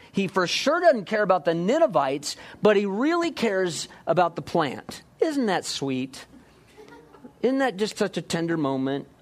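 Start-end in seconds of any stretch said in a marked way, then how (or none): 5.2-9.1 sarcastic. Real, not acted. Sarcastic mock tenderness.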